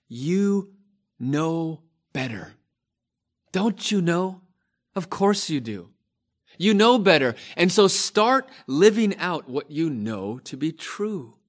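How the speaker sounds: frustrated apostle. Acted. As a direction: scold a church that knows better. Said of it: "you can hear the frustration in the Apostle Paul's voice".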